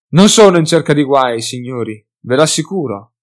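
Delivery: open, honest appeal, calmly firm; frank tone. Acted. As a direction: reason with the hunters, hands open. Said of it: "in tono franco".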